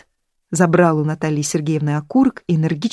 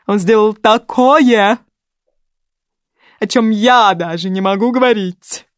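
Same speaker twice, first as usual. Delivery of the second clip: anguished; 4 semitones higher, 5 dB louder, slower than usual. Acted. Natali's grief over her son.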